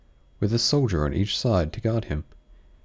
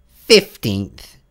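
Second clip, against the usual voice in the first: loud contradicting hare voice; the Hare correcting the Hatter; March Hare; 9 dB louder than usual. A narrator's reading. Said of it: "said the March Hare".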